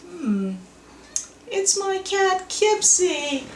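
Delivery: ordinary talk, nothing marked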